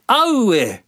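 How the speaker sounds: very high loud dismayed cry; squeaky sandfly wail. Acted. Sandflies chased off, very high loud wail. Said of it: "cried Sandy and Namu".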